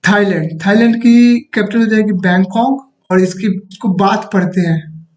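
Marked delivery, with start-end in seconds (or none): 3.9-4.3 "बात" said with the H silent. Shown as a demonstration. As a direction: say "बात" without sounding any H. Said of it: "एच silent होता है".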